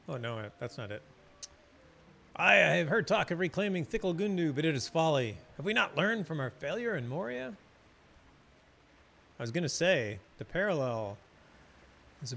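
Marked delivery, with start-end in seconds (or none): 2.3-7.5 dwarf NPC voice. Acted. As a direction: read the dwarf's warning with mild gravity. Reads dwarf NPC dialogue.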